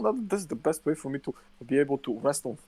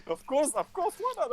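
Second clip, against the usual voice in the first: sarcastic. Retold or imitated. Sarcastic resignation at being searched.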